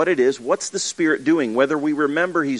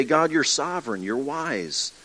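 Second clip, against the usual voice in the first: a touch of sincere prayer; lightly voiced earnest prayer; prayerful; 2 semitones higher than usual. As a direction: speak it to God gently. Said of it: "We remind ourselves and we say".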